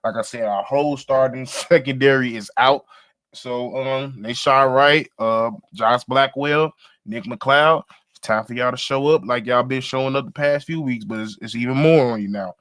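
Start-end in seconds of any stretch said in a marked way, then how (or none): 3.8-12.6 talking with gum in mouth; words around a wad of gum; chewing gum. Real, not acted. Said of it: "sorry, I got gum in my mouth".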